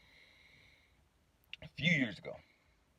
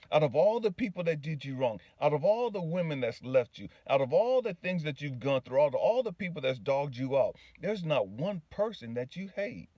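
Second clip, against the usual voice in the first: higher, insistent rolling list; impassioned reassurance; 4 semitones higher than usual. Retold or imitated. God telling the man he hates nobody, impassioned and insistent. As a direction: pile up each phrase with conviction. God's speech building in a list.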